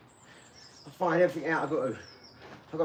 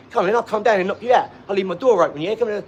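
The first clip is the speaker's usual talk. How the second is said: raised, louder mock tough talk; acted-out challenge; 3 semitones higher, 5 dB louder than usual. Retelling his mate's online threats to fight, mock challenge. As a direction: imitate a mate calling someone out.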